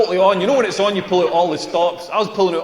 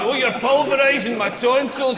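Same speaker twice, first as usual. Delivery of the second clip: mock moaning woman; 4 semitones higher, slower than usual. Wished-for dirty talk.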